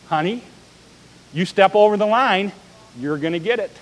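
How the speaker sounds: a sugary, soft-spoken threat; sweetly. Retold or imitated. Spouse warning their partner, in a mock-sweet voice. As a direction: coo the warning like it's a kindness. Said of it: "we say so sweetly".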